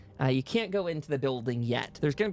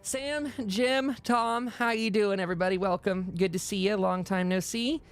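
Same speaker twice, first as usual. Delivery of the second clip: a higher, bright welcoming voice; cheery greeting; 6 semitones higher than usual. Acted. Hell's Bells welcomes the party back, higher and cheery. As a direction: greet old friends back from a trip, brightly.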